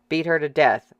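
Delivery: a voice in the crowd shouting agreement; shouted in agreement. Acted. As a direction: yell it along with the mob. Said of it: "someone shouted in agreement".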